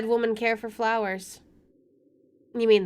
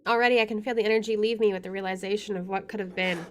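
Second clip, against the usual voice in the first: measured first-person narration; story narration; 4 dB louder, faster than usual. Acted. Player reading the game's inner monologue, story narration. Reads game narration aloud.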